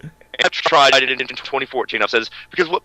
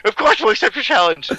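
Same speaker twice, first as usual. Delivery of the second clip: promo voice; 10 semitones higher than usual. Retold or imitated. Wrestling promo voice quoted.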